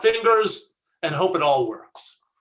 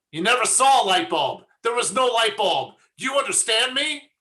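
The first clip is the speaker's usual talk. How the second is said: mock intimidation; 3 semitones higher than usual. Acts Mossad agent in punchline.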